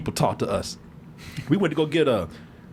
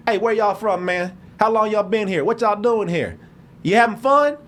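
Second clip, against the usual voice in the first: put-on Tennessee accent; 3 semitones higher than usual. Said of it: "he talked just like this".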